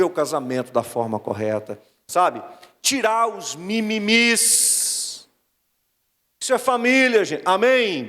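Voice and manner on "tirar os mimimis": drawn-out stressed mimimis; slow emphatic. Shown as a demonstration. Pastor mocking family complaints, slow drawn emphasis. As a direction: stretch out Tirar os mimimis slowly. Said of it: "repeated phrase".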